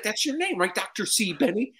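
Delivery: high, puzzled questioning; confused assistant. Retold or imitated. Clipboard lady checking his name, high and puzzled.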